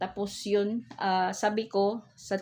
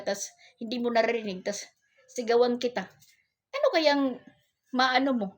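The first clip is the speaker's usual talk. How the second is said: higher, louder mock scolding with a laugh; retold scolding; 6 semitones higher, 3 dB louder than usual. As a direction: tell him off, half amused. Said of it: "Sabi ko naman". (ginagayang pagsaway, may halong tawa)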